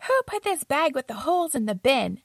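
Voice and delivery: lightly annoyed complaint, mildly imitated; a hint of a fed-up roommate. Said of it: "in a very annoyed voice".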